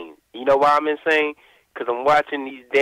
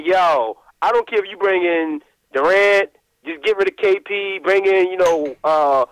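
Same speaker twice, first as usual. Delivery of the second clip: worked-up rant; 3 semitones higher than usual. Retold or imitated. Caller tells the radio hosts his trade plea, rising excited rant. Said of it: "and be like".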